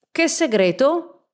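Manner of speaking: quick, curious, rising; eager question. Acted. Professor eagerly questions the uncle, curious. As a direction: snap up the question with interest. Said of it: "domandò vivamente".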